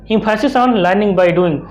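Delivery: each English word read out very slowly and evenly; slow dictation. Shown as a demonstration. Teacher reading the notes to students, very slow dictation.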